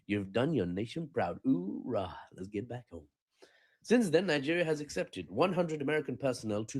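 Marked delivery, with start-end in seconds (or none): 0.1-3.1 slow, softer army officer voice; lightly voiced gung-ho commander; military commander voice. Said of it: "they were like".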